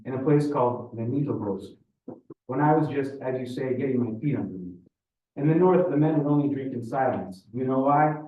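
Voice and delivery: put-on older Russian man reminiscing; Ivan, Russian storyteller. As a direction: tell it with a Russian accent. Voices Ivan telling his story.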